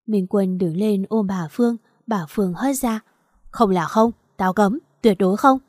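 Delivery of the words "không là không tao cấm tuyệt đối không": firm, louder forbidding mother; angry refusal. Acted. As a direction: slam the door on it, no discussion. Mother forbids son's girlfriend.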